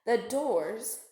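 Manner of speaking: a hungry shark purring to himself; sly shark thinking. Acted. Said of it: "he thought".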